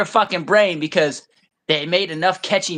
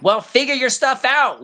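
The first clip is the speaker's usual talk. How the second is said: higher-pitched mock dismissal; imitated dismissive white person; 6 semitones higher than usual. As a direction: imitate someone brushing off a complaint. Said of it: "probably say shit like".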